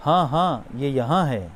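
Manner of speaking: oh yes, it just clicked; teacher acting out suddenly recalling the station; sudden remembering. Shown as a demonstration. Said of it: "اچانک آپ کو یاد آیا".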